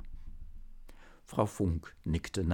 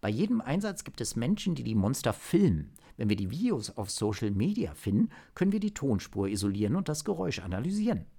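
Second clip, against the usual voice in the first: higher-pitched, keen agent; agent with sudden idea; 4 semitones higher, faster than usual. Acted. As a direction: lay out a plan that just struck you. (Agent mit plötzlichem Einfall)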